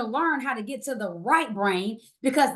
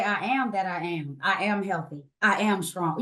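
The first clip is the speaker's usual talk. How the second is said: lower, calm spoken affirmation; lower, steady affirmation voice; 6 semitones lower than usual. Shown as a demonstration. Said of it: "today we should say".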